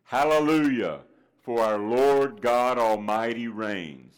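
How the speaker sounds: slow, booming call for all to repeat; leading refrain. Shown as a demonstration. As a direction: show the congregation how to call it out. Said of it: "I want you to say with me".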